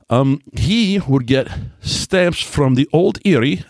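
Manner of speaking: slow put-on Irish accent; a quick stab at an Irish brogue; a brief joking Irish accent. Shown as a demonstration. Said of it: "That is my Irish accent".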